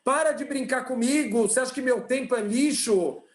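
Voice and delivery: a lightly played furious rich man; acted angry outburst. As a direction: tell him off, half-acted. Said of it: "o homem já atende soltando os cachorros".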